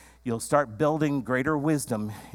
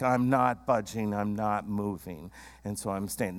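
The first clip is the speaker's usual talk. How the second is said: low, quieter, dug-in refusal; stubborn stonewalling; 5 semitones lower, 3 dB quieter than usual. Retold or imitated. A spouse stonewalling in a fight, stubbornly low. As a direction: plant your feet and refuse to budge. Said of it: "or stonewalling".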